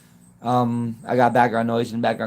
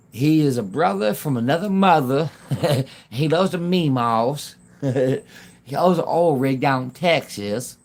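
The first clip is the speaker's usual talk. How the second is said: slower, drawn-out talk with laughs between; playful slowed-down imitation; Damon Darling impression; slower than usual. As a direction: lightly imitate his drawling hype. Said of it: "That's how he talks".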